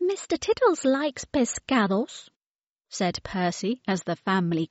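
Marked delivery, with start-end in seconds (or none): 0.1-2.3 put-on child voice. A narrator's reading. Percy speaks.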